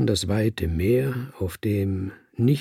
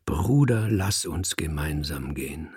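with feeling; 7 semitones lower than usual. A narrator's reading. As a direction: put some feeling into it, ending low and hushed. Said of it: "legte Gefühl in meine Stimme".

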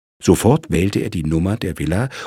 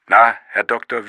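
louder, higher jovial call; louder again; 6 semitones higher, 5 dB louder than usual. Acted. Sergeant presses the lawyer on the phone, louder again. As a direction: raise the voice again, coaxing. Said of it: "Und wieder lauter werdend".

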